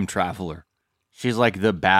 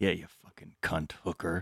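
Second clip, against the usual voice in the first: mock muttering, slower; 11 dB quieter than usual. Imagining what Trish would say, imitating Trish muttering under her breath. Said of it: "Like under her breath".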